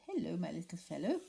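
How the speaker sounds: put-on gentle, fond old bird voice; kindly Owl. Owl greeting young Roo, kindly and gentle. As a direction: kind and patronising to a little one. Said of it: "in a kindly way".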